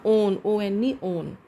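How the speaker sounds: ओन then spelled ओ एन ई, then ओन again. Shown as a demonstration. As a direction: say ओन, spell it letter by letter, repeat ओन. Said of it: "लेकिन इसको हम बोलेंगे क्या". (ओन को spell करके बोलना)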